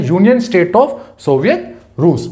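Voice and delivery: "Union State of Soviet रूस" slowly, word by word; careful correction. Shown as a demonstration. Teacher correcting students who say United, "Union State of Soviet रूस" slow and deliberate. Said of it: "यूनाइटेड बोल देते हैं पर वो गलत है".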